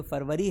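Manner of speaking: फरवरी said English-style as "feb-ruh-ree"; English pronunciation. Shown as a demonstration. Teacher giving the English month, फरवरी as "febrari". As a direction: start फरवरी with "feb", not "far". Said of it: "इसे फरवरी पढ़ा जाता है".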